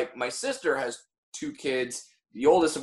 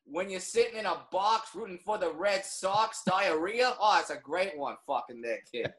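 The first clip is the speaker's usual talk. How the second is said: bad Boston accent; 2 semitones higher than usual. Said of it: "That's the worst Boston accent".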